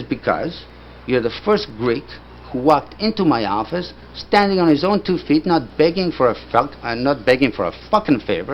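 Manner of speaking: retold blunt, emphatic explanation; emphatic studio boss. Studio owner explaining his choice of manager, emphatic. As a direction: punch out the reasons like the boss. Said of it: "that's how he talked".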